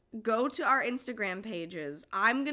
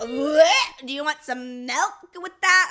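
mock outrage; 5 semitones higher, 10 dB louder, slower than usual. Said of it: "And I'm like".

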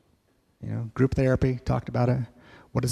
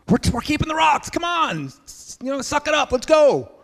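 much higher, pushy rallying; mock tough pep talk; 14 semitones higher than usual. Group urging the tired boy on, mock pushy. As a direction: chivvy the group to suck it up. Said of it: "And we're like".

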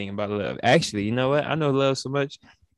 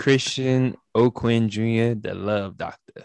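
slow showman intro; slower than usual. Pretend. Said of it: "Call me".

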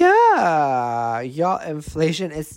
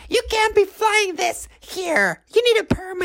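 put-on old lady scolding. Friend mimics a beach busybody, high mock scold. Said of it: "this old lady comes up and she's like".

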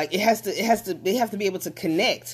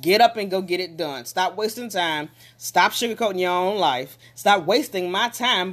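stern voice; 2 semitones higher than usual. Shown as a demonstration. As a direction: order them up with love, no sugarcoating. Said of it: "in the same stern voice".

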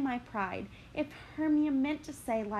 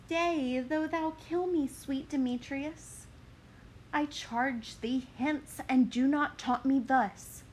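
Helena pleading; 3 semitones higher than usual. Acted. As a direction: beg him to stay. Helena begs Demetrius.

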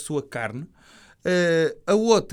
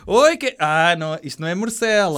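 startled yelp; 7 dB louder than usual. Pretend. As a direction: jump and squeal in surprise. Imagined waiter exclaiming.

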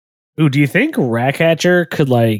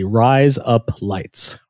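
Australian accent; much slower than usual. Shown as a demonstration. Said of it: "say razor blades in an Australian accent".

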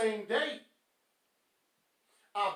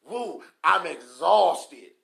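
drawn-out mock exhaustion on "Woo, I'm exhausted"; mocking a worn-out worker; mock exhausted whine; 5 semitones lower, 7 dB louder, much slower than usual. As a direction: ham up being tired, slowly. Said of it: "And you talk about".

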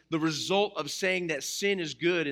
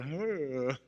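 imitating a yawn; 3 dB quieter than usual. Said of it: "he's just going".

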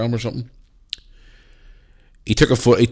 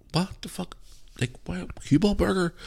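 high, hushed imitation of bewildered guys; baffled mock reaction; 10 semitones higher, 7 dB quieter than usual. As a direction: quote their disbelief high and under your breath. Acts out baffled guys' reaction.

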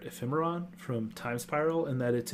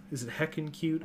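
normal talking voice

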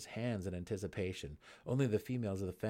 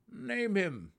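loud, curt order; stern command; 12 semitones higher, 7 dB louder than usual. A narrator's reading. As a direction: order it sharply. Gnome demanding.

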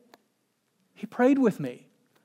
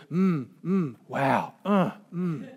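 lightly imitated pensive pastor murmurs; pondering hums, lightly mimicked; Richard; much slower than usual. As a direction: do a mentor's slow, noncommittal hums. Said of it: "That's how he talks".

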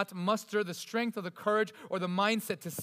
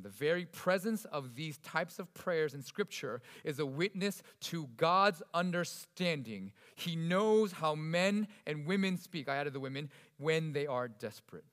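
reading a quote; 4 semitones lower, 4 dB quieter, slower than usual. Real, not acted. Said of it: "this is what he says".

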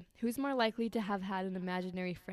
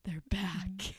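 whisper. Retold or imitated. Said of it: "I was like".

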